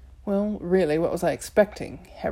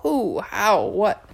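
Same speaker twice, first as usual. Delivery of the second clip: loud, strangled panic; choked alarm; 4 dB louder, much slower than usual. Acted. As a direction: sputter out questions in alarm. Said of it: "Carter made a choking sound".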